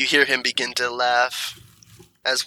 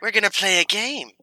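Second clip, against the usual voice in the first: sinister villain; 5 semitones higher than usual. Acted. Villain toying with captured players.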